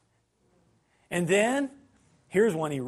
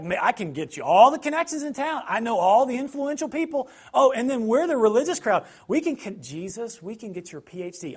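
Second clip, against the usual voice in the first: higher, louder salesman pitch; smooth-talking Pharisees; 4 semitones higher, 4 dB louder than usual. Retold or imitated. Pharisees tempting Jesus with connections, higher and pushy. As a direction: schmooze like a fixer selling connections.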